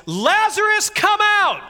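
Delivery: high, loud call to the tomb; Jesus shouting into the tomb, a loud high call; loud cry. A narrator's reading. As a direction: call him out of the grave at full voice. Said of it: "he cried out in a loud voice".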